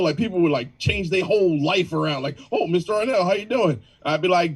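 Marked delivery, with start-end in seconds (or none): 2.5-3.8 a light, fawning suck-up greeting; mild mock flattery toward a powerful man; obsequious voice. People fawning over the trustee president, lightly obsequious. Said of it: "The, the obsequious voice".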